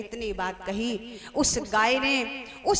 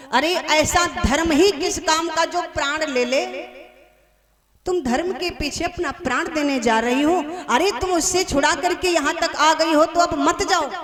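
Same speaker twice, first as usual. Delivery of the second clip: raised, higher voice of remonstrance; exasperated pleading from worried friends; urgent protest; 4 semitones higher, 4 dB louder than usual. Acted. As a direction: talk a friend out of it, forcefully. Cows scold and dissuade friend.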